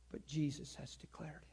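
hushed whispered reveal. Acted. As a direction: drop to a whisper for the key truth.

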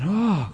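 high, rising-falling sympathetic oh; retold pitying "oh". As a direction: let out a heartfelt, drawn-out oh. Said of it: "And I went".

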